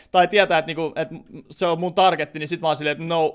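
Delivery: usual speaking voice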